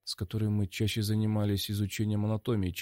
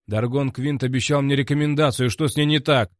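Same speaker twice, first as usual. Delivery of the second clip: raised voice; 5 semitones higher, 6 dB louder than usual. Acted. Hero presses angry director.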